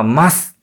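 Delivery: 「ます」 with the vowel of す nearly dropped, soft and clipped; soft ending. Shown as a demonstration. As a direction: say 「ます」 as "mas", the final u barely voiced. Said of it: "最後は".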